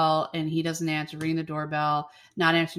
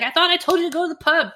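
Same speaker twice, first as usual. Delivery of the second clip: higher, louder, fast mock scolding; mock exasperated Daniel; 10 semitones higher, 6 dB louder, faster than usual. Daniel snaps at Bridget for coming back, higher and fast. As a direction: rattle it off, high and exasperated.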